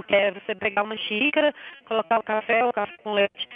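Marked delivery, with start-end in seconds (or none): 1.9-3.5 metallic robotic phone line; garbled robot-like call audio; toy robot voice. Real, not acted. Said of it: "Você tá com voz de robô aqui".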